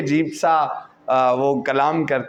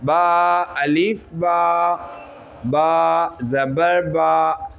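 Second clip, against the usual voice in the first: recitation drill; much slower than usual. Shown as a demonstration. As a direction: call out each letter slowly and clearly. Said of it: "एक एक ग्राम का वज़न".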